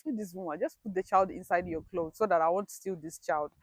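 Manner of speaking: quiet, sarcastic inner grumble; a hushed sneer at the mother; muttered inner thought. Retold or imitated. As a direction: say it under your breath, bitterly. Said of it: "In my head, I was like".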